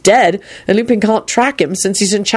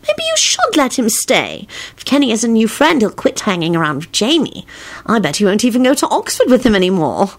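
higher feminine wheedling; coaxing; 4 semitones higher than usual. A narrator's reading. Wife talking husband into a guest, coaxing. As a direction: persuade gently, pitched up.

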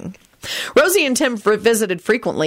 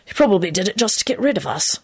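musing. A narrator's reading. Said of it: "he mused".

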